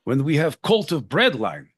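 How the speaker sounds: lightly done mock Russian accent; half-hearted mock Russian accent joking about bread lines. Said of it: "a Russian".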